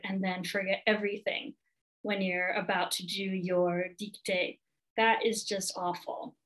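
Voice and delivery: hushed, sympathetic validation; soft sympathy. Shown as a demonstration. Tutor comforting a student with test anxiety, hushed and sympathetic. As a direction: breathe out the sympathy softly, letting it land. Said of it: "the first thing I say is".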